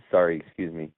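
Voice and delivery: rough throat right after coughing; smoker's cough. Real, not acted. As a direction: clear the cough, then apologise. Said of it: "Smoker's cough".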